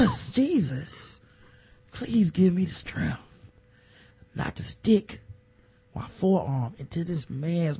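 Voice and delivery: slow, strained mock prayer; pleading prayer. Ray Lewis begging Jesus for strength, slow and pleading. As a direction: beg Jesus for restraint, slowly.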